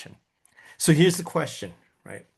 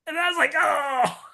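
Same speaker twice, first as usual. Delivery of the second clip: mock wail. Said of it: "reacting to coach's question".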